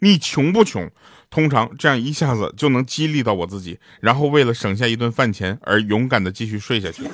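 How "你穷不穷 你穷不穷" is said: high-pitched mock roaring bark, scolding tone. Describing weekend mornings, the speaker reenacts what he shouts at himself: retelling roaring at himself. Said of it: "我都会对自己大吼三声".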